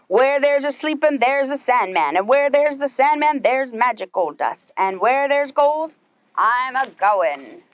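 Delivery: lightly voiced pirate captain, slowing on the last words. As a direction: growl it like a greedy sea captain. Pete's refrain.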